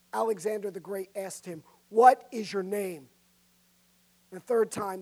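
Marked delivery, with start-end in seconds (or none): 1.9-3.1 louder and slower, demanding. Acted. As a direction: ask it a third time, louder and slower. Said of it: "A third time and more loudly".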